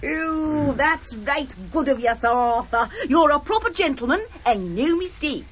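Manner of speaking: an improved but still light Cockney; Cockney accent. Pretend. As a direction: play the East End girl with a cheeky charm. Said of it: "teach a Cockney flower girl".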